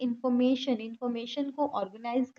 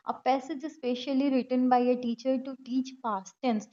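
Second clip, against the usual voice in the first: very slow, deliberate reading of an option; much slower than usual. Acted. Teacher reading an exam option aloud, slowly. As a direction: spell it out slowly for learners.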